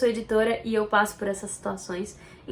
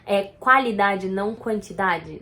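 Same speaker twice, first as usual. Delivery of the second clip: school saying; 4 semitones lower, 3 dB louder, slower than usual. Retold or imitated. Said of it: "fala assim".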